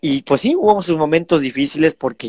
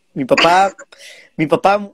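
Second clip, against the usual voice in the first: whisper; 4 semitones higher, 3 dB louder, slower than usual. Real, not acted. Whispered aside about dad.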